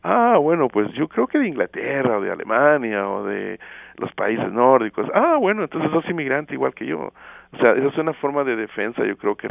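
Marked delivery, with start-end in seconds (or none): 0.0-5.1 quoted reply. Retold or imitated. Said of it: "imagined Canadian's reply". 5.1-7.1 triumphant retort. Retold or imitated. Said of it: "own punchline retort".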